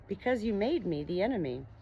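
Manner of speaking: a light hint of a gentle, soothing monster; lightly voiced kind monster explaining himself; melodious healing voice. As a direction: speak kindly, as a healer would. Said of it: "in his melodious and healing voice".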